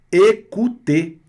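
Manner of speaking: Écouter drawn out slowly with French ou. Shown as a demonstration. Teacher modelling Écouter slowly for students. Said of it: "o O mais U".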